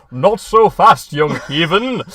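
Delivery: drawn-out superhero call to a thug; heroic challenge. Retold or imitated. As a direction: hero confronting a mugger, slow and bold. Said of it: "he comes and goes, like".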